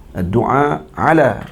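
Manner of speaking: doa ala, stretched slowly; drawn-out doa ala. Shown as a demonstration. Teacher stretching "ala" slowly for Malay students. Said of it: "maksudnya doa dengan kehancuran".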